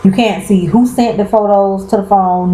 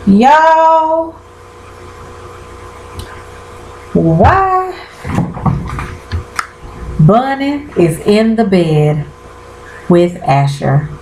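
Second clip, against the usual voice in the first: much higher, slow, drawn-out shock; stunned disbelief; 4 semitones higher, much slower than usual. Real, not acted. Telling viewers about a twist, drawn-out high shock. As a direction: draw it out like you can't believe it.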